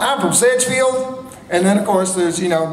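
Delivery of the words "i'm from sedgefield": slow, high-pitched Sedgefield accent; slow Sedgefield Southern speech, pitched up. Shown as a demonstration. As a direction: say it like a Sedgefield local. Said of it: "Can you hear the difference?".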